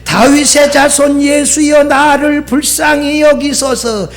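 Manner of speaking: measured call for mercy; retold crying out. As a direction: imitate a beggar's cry without full volume. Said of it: "뭐라고 소리쳐요?".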